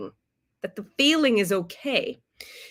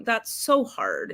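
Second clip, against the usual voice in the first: empathetic; 3 semitones higher, slower than usual. Retold or imitated. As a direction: say it gently, slowly, to comfort. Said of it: "you tell him".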